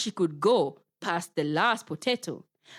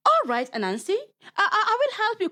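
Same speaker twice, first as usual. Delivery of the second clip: nervous laugh; 13 semitones higher, much faster than usual. Acted. Nervous Guinea Fowl agrees.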